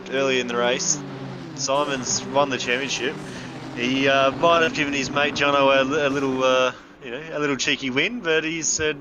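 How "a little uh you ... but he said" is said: ordinary talk, nothing marked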